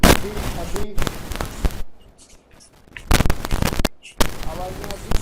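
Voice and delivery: breaking up, cutting out; faint crackly broken audio; clipping distorted mic. Real, not acted. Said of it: "sir, आवाज फट". (फटती हुई खराब mic आवाज़)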